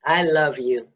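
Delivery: soft, sincere reassurance; tender. Real, not acted. Answering a friend's apology with love, tender. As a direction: say it tenderly and quietly. Ritual exchange of forgiveness.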